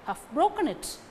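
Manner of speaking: "broken" stressed, weak "Have" and "it". Shown as a demonstration. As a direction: lean hard on "broken". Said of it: "Broken takes stress".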